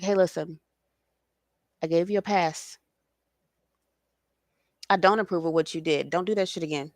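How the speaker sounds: a soft, patient first warning; very gentle. Retold or imitated. God gently warning a straying child, soft and low. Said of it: "very, very gentle".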